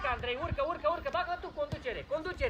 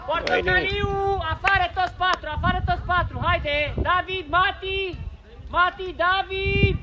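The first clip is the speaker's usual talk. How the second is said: loud, higher sideline shouting; shouted orders; 5 semitones higher, 5 dB louder than usual. Real, not acted. Coach directs young players and substitutions, shouted orders. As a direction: bellow instructions to players on the pitch.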